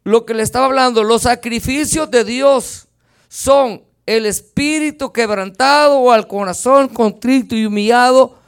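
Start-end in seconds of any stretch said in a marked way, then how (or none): 1.0-7.6 "los sacrificios de Dios" stretched slowly, leaning on "de"; deliberate slow emphasis; slow, emphatic reading. Shown as a demonstration. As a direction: spell out each word so they listen. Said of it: "oigan bien".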